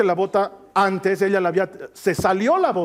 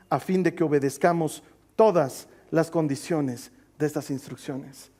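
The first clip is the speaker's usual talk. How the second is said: scripture reading; slower than usual. Acted. Reads scripture to the congregation.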